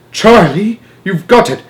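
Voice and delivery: high, delighted exclamation; excited cry. A narrator's reading. Wonka seizing on the boy's idea, excited. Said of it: "in the air and cried".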